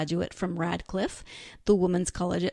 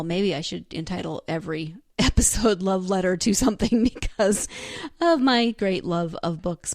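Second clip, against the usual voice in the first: laughing; 5 dB louder than usual. Real, not acted. Laughing at her own idea.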